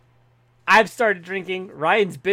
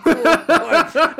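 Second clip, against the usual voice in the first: high, loud, long-drawn cry through laughter; laughing shout; 9 semitones higher, 7 dB louder, much slower than usual. Real, not acted. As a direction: crack up and bellow it out slowly. Laughing defence of botched accent.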